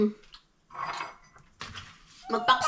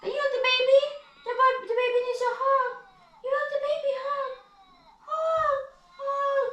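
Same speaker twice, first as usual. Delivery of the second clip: very high mock-pleading whimper; pretend crying; 12 semitones higher than usual. Mama urging the child to hug the baby, pretend crying. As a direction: beg in a tiny, high fake-cry voice. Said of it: "pretend mag-cry-cry".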